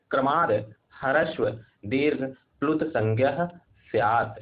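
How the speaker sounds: slow, measured Sanskrit chant; slow recitation of a Sanskrit grammar rule; sutra recitation. Shown as a demonstration. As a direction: intone the rule syllable by syllable.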